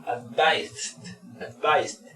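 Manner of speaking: "advised" with a strong Z, then D; "advised" in two syllables, ending in a stop; pronunciation demo. Shown as a demonstration. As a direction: model "advised" slowly, consonants closing the word. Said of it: "a la Z fuerte y terminas diciendo una D".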